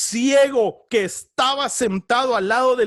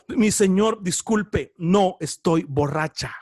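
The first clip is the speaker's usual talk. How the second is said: sorrowful plea; 6 semitones lower, slower than usual. Acted. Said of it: "ella le dijo".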